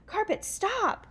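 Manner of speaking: high, loud, drawn-out cry of stop; shout. Acted. Sabrina ordering the falling carpet, high drawn-out shout. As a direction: yell at the carpet before the crash, slowly. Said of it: "managed to shout".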